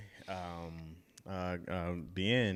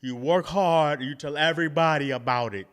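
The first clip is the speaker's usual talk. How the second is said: Arnold Schwarzenegger impression; 3 dB louder than usual. Podcaster quoting a star's motivational advice, Arnold Schwarzenegger impression. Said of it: "He don't talk like that".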